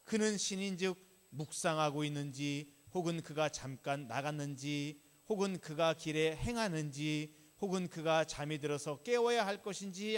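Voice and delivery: loud, declaimed mock scripture reading; emphatic, loud recital of a jeer. A narrator's reading. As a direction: read the taunt out forcefully. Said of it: "조롱했다라고 합니다".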